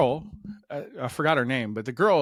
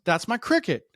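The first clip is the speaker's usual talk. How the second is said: put-on child's proud voice; 8 semitones higher than usual. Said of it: "Evelyn goes".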